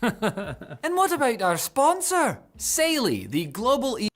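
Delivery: slow, laughing through the words. Real, not acted. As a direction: giggle into the question. Laughing into sponsor segue.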